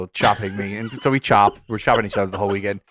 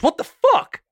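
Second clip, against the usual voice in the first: very high, louder shocked yelp; startled stranger; 5 dB louder, much slower than usual. Retold or imitated. A stranger punched from behind, yelping high in shock. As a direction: yelp it high like you've just been hit.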